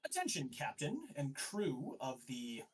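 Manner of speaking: lightly voiced official announcing himself; proclaiming inquisitor. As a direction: call the crew to attention as an inquisitor. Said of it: "and goes".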